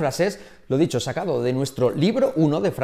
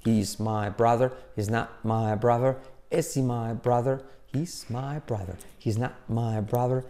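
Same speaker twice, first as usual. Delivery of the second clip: steady chanted phrases in time; rhythmic drill. Shown as a demonstration. Teacher making the phrases stick all day, rhythmic chant. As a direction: chant each variation evenly on the beat. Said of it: "practicar así con ritmo".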